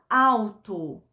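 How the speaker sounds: alto said slowly, the L clear; slow demo word. Shown as a demonstration. Teacher slowly shows the new word alto. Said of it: "Se eu colocar a letra L".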